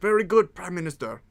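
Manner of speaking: hammy mock French accent for the reply; bad French accent. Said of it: "bad, really bad accent".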